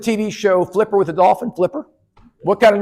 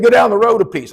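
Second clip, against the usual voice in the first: put-on old country man; 5 semitones higher, 3 dB louder than usual. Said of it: "He said".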